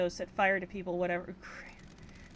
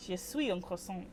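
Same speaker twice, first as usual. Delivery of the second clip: a hammed-up French accent, in French; jokey fake French for the chat; mock French accent. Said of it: "my terrible French accent".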